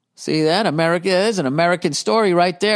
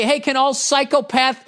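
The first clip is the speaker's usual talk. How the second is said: mock cop announcement; 8 semitones higher than usual. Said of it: "if the cops could say".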